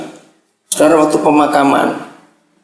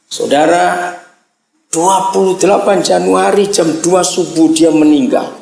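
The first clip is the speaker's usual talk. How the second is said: ordinary talk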